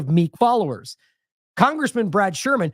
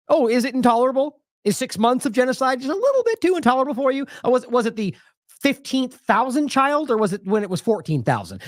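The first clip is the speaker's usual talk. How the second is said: sarcastic; 5 semitones higher than usual. Real, not acted. Sarcastic reply to Sunak quote.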